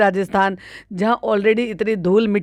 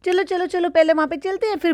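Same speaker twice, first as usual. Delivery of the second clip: mock mother's voice; 8 semitones higher than usual. Mimicking madam calling child.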